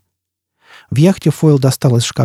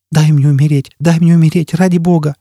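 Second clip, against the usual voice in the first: desperate begging; 4 semitones higher than usual. Acted. Tortured man begging.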